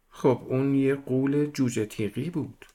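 put-on girl stubbornly corrects the detective in a high voice; little girl voice. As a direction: insist like a small girl who won't back down.

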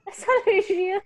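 high, put-on excuse voice; mock excuse. Joking about hiding tears at work, high mock voice. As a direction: toss off the fake excuse.

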